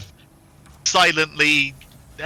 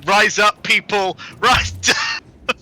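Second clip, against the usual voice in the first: mock rallying cry; 5 semitones higher than usual. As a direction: rouse the crowd in jest. Mock revolutionary call to arms.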